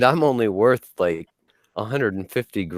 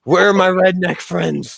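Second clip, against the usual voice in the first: redneck voice; 10 semitones higher, 4 dB louder than usual. Acted. Imagined redneck welder.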